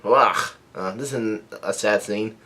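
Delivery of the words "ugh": half-hearted "ugh" of pain; imitated pain yell. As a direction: mimic a pained cry without shouting. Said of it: "someone is yelling out in pa-, pain".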